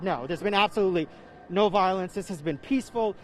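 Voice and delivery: muffled through a face mask; breathing heavy behind a mask; talking through a mask. Real, not acted. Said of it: "it's hard to talk with this mask".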